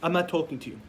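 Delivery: a grown son protesting his parent's anger; mock-wounded young man's outburst; indignant son. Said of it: "He's like".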